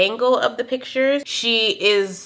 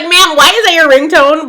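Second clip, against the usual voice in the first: incredulous question; 8 semitones higher, 9 dB louder than usual. Retold or imitated. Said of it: "I'm like".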